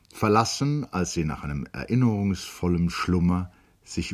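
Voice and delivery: calm literary reading; story narration. A narrator's reading. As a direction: read it like a radio novel. Reader narrates the novel. (ruhige Romanlesung)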